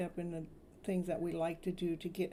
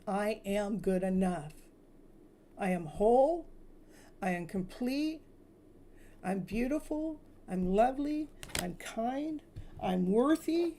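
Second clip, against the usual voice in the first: uplifted affirmations. Shown as a demonstration. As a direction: declare it with growing joy. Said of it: "I want you to always say".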